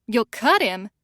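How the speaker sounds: stifling a snicker. Acted. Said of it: "stifling a snicker".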